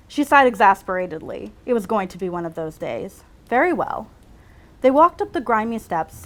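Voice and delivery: measured read-aloud storytelling; story narration. A narrator's reading. Writer reads her own medical story aloud, measured narration. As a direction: read it out like a novel excerpt.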